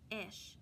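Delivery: "F-ish" split into onset and rhyme; sounding out words. Shown as a demonstration. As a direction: say "F-ish" with a gap after the F.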